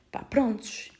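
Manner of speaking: breathy whisper of resignation; whispered aside. Real, not acted. Shrugging off the hospital story in a whisper. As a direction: let it out as a whisper.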